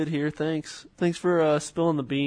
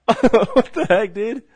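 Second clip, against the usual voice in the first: surprised; 8 semitones higher, 9 dB louder, slower than usual. Real, not acted. Surprised at a gecko on the wall.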